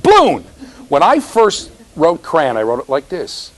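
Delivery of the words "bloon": "Balloon" as a high, loud "bloon"; one-syllable balloon. Shown as a demonstration. Teacher teasing about the schwa, high "bloon". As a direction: pitch "Balloon" high, dropping the uh. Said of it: "but she can't".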